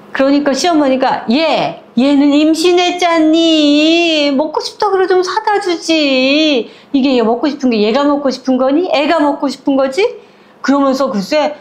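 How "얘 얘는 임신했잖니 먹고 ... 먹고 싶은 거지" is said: defending mother-in-law. Retold or imitated. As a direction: take the pregnant one's side, chiding. 시어머니가 동서 편을 듦. (높고 큰 목소리로 감싸며 나무라는 시어머니)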